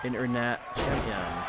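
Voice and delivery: slow, lightly put-on accent, not the dodgy Scottish one; a lightly voiced announcer accent, drawn out. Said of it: "better than the, uh, the dodgy Scottish accent".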